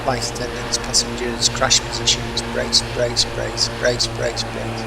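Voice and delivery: loud urgent brace call; shouting commands. Acted. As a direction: bark the brace order.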